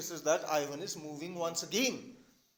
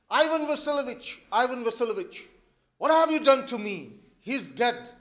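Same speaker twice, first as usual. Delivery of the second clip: loud, raised cries without real tears; acted hysterics; 3 semitones higher, 5 dB louder than usual. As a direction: call out in theatrical panic. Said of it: "getting hysterical. She's shouting, she's crying".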